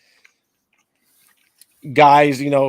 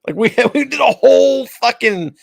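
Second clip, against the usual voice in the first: laughing; 8 semitones higher, 7 dB louder than usual. Real, not acted. Laughing while ranting about search.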